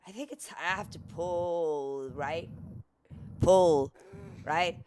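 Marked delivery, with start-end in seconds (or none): 3.4-4.8 urging. Real, not acted. Urging the character Lara.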